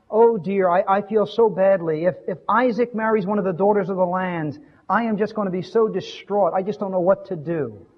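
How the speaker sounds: pleading, tearful wife voice; plaintive. Retold or imitated. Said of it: "that plaintive voice".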